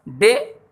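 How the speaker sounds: डे said short and unforced, by itself; unstressed syllable demo. Shown as a demonstration. Teacher isolating the weak syllable, short unstressed डे. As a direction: give डे only a brief touch. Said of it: "कम जोर लगाना पड़ रहा है".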